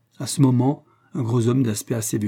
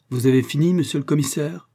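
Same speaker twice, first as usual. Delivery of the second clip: curt and cutting, pushing up at the end; 4 semitones higher than usual. Acted. Robert challenges the searching commissioner in a cutting tone. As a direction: slice the question at him. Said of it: "interrogea-t-il d'un ton tranchant".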